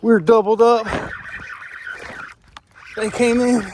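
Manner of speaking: high, excited call; thrilled, two fish on. Real, not acted.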